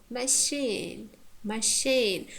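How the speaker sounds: "machine" with weak first syllable and strong, long "sheen"; "machine" said as ma-SHEEN, as a teacher's example; stress on second syllable. Shown as a demonstration. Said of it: "Therefore, it's stressed".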